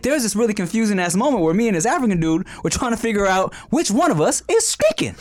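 lightly voiced Jamie Foxx, fast and rising; Jamie Foxx bit. Co-host retelling Jamie Foxx's stand-up bit, light impression. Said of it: "So he's like".

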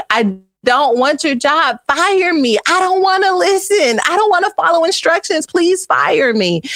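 high, whiny mock sobbing child; imitating Ella crying. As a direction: wail it like a five-year-old who was scolded. Mother imitates crying daughter Ella.

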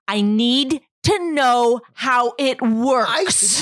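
slow, clipped, insistent demand. Retold or imitated. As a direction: spell it out slowly, clipped. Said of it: "in that clipped kind of voice".

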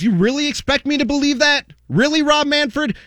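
incredulous. Real, not acted. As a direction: throw the question back in disbelief. Incredulous rant.

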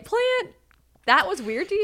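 very high-pitched astonished question; incredulous. Real, not acted. Girlfriend defending the word eggplant, high incredulity. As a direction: shoot the pitch way up in disbelief. Incredulous reply to his bafflement.

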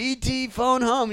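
slow, high E.T. impression. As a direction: croak it out like the alien. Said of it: "He goes".

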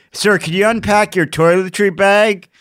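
high, loud bag-inspector voice; mock official. Inspector asking a traveller to unpack, officious mock voice.

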